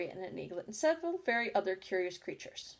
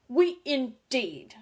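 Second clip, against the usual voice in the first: high, loud, slow squeaky cry; mouse crying out; 4 semitones higher, 7 dB louder, much slower than usual. A narrator's reading. Mouse to Alice, trembling with anger, a squeaky cry. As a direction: squeak out indignantly. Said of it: "cried Mouse".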